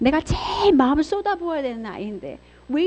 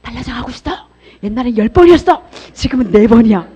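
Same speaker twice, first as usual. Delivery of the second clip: cheering encouragement; 8 dB louder than usual. Shown as a demonstration. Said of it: "응원 좀 해주세요".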